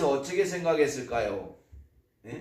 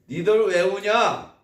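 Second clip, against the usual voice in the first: louder, slow scolding of crybabies; exasperated scolding; 4 semitones higher, 6 dB louder, slower than usual. Retold or imitated. God scolding weeping Israelites, in slow exasperation. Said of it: "주변에 있으면은".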